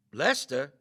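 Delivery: a worried, questioning call of the name; uneasy question. A narrator's reading. Meagle calls to Lester who does not move, uneasy question. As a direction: ask for him, afraid of the answer.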